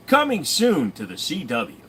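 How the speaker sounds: mock promo voice, coming falling; trailer voice. Mock trailer announcement again.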